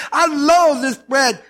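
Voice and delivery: slow, haughty contempt; arrogant sneer. Retold or imitated. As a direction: sneer it with pride. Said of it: "their arrogancy".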